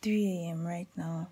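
late night hushed whisper. Real, not acted. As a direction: whisper so nobody wakes.

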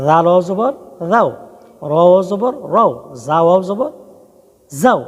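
deliberate letter drill, each ending "রাও", "রও", "যাও" set apart; careful pronunciation demo. Shown as a demonstration. Teacher tells learners to keep it correct, careful pronunciation demo. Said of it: "উচ্চারণ ঠিক রাখবেন".

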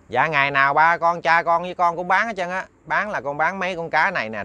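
put-on a boy pleased to sell; glad boy. Đức happily telling the old man about the fish.

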